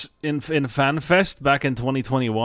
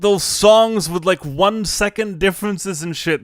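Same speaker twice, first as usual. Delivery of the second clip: much higher, louder mock indignant yell; mock outraged writer; 8 semitones higher, 3 dB louder than usual. Writer yelling at the composer on stage, mock outrage. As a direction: play the writer scolding him in disbelief. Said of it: "And she was like".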